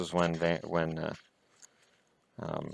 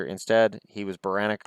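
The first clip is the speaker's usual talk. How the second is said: mock reading. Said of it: "Oh, I'm sorry".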